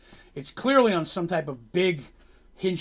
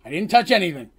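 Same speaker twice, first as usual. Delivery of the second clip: panicked denial; 3 semitones higher, 8 dB louder than usual. Acted. Dandy protesting innocence again.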